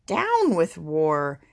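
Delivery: slow, mild hooting chant; understated protest chant; hooted. Acted. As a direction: hoot it with a drawn-out vowel, unshouted. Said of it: "And he hooted".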